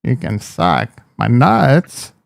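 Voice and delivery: Christopher Walken impression. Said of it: "Christopher Walken".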